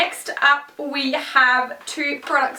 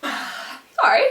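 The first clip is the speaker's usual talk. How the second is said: sigh; 9 semitones higher than usual. Real, not acted. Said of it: "that was a bit rude".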